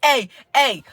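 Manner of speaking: high, hammed-up hype-man voice with laughter; mock a buddy pumped for the Super Bowl; hyped sports fan. Imitating men hyped at the Super Bowl, in a high laughing voice. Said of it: "When it's the Super Bowl".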